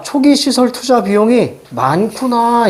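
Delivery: slow reading, stretching out 많구나; demonstrated reading takeaway. Shown as a demonstration. Teacher modelling how to read the example, drawn out. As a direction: land on a drawn-out realization. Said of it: "선생님은 이렇게 갑니다".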